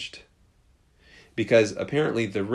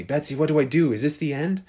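higher, louder frightened pleading; panicked; 7 semitones higher, 7 dB louder than usual. Retold or imitated. Corey in line begs her sister Betsy for help, panicked. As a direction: panic rising as the search comes closer. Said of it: "She's freaking out".

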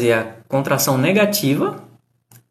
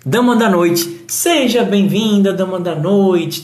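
warm welcome; 5 semitones higher than usual. Real, not acted. Greeting a viewer by name.

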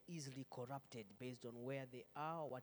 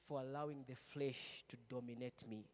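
leading a prayer; 3 dB louder than usual. Shown as a demonstration. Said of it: "Just say".

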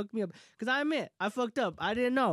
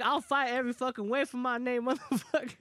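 higher-pitched heated vow; retold angry defiance; 4 semitones higher than usual. Retelling a vow to defend his name, defiant. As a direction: pop off at him, retold. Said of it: "I was fucking popping off".

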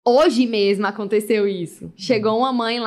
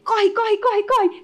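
playful urging; 9 semitones higher, much slower than usual. Retold or imitated. Urging child to dress fast.

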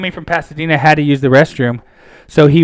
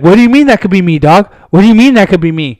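higher, mildly confrontational comeback; retold indignant challenge; 3 semitones higher, 4 dB louder, faster than usual. Big homie challenges the threat, higher mock indignation. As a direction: act out a man taking offence. Challenged man answers back.

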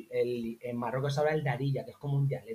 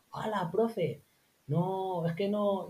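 shocked pupils; 6 semitones higher, slower than usual. Retold or imitated.

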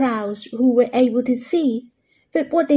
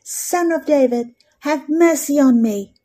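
crying out all the more; 3 semitones higher than usual. Retold or imitated. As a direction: push the plea harder, a mild mock cry. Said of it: "He cried out all the more".

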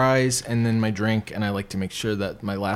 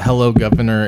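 monotone; 2 semitones lower, 6 dB louder than usual. Shown as a demonstration. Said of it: "you say it monotone".

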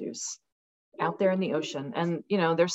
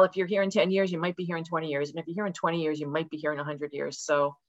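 ordinary delivery

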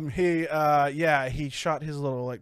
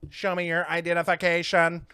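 robot. Retold or imitated. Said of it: "the robot's like".

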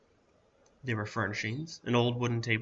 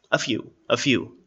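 put-on slow, louder raspy old man; 7 dB louder than usual. A narrator's reading. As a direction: draw it out like an old hermit remembering. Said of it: "the raspy voice of the man".

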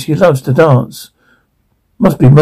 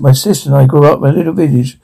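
put-on fast, heavy Mexican accent; faster than usual. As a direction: rush it in a thick Mexican accent. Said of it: "heavy accent".

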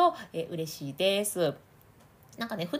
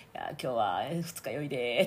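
lower, sluggish mouth-only voice; imitating a hungover host; 8 semitones lower than usual. Coach imitating Nishino speaking hungover. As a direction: mumble it like you're hungover. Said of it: "っていう風にね".

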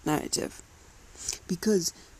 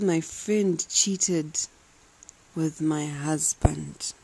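slow, deliberate quote; much slower than usual. Retold or imitated. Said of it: "She said".

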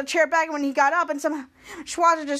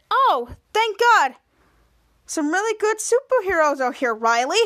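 acted relief; 3 semitones higher than usual. Volt greets a hero zooming in on time, mock relief.

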